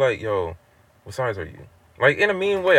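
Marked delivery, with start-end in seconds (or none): 0.2-1.7 low, casual challenge; imitated laid-back provocation; falsely chill. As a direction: ask it chill but mean it as a test. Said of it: "I'm saying it like he was chill with it".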